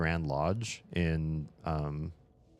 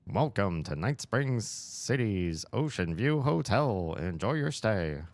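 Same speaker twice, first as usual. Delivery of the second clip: put-on slow old-timey hotel greeting; lightly voiced vintage announcer; 3 semitones higher, slower than usual. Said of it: "An old-timey voice might once say".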